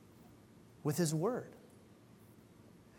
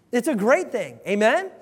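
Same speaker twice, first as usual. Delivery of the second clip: calling out amen; 4 semitones higher, 9 dB louder than usual. Real, not acted. Calls congregation to respond.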